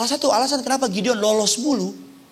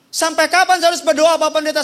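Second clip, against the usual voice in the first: questioning congregant; 5 semitones higher, 4 dB louder, faster than usual. Acted. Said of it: "Saya suka bilang dalam khotbah saya".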